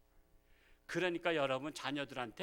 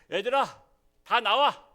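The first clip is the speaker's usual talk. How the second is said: put-on loud drunken call to the kids; drunken shout; 6 semitones higher, 9 dB louder than usual. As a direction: bellow it like a drunk dad summoning everyone. Drunk father calls children out. (술 취한 아버지처럼 크게 부르는 소리)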